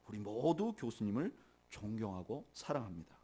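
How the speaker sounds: low, soft, measured reassurance; understated tender respect; gentle letter reading. Retold or imitated. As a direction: read a heartfelt card aloud quietly. Reads a student's consoling card.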